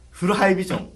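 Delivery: punchy ad slogan; CM catchphrase voice. Retold or imitated. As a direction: sell it like a TV ad. CM parody catchphrase.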